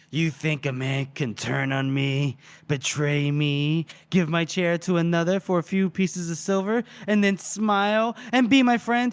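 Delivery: menacing villain. Retold or imitated. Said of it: "And then he goes".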